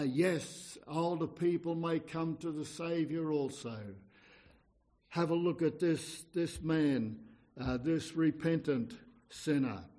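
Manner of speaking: ordinary talk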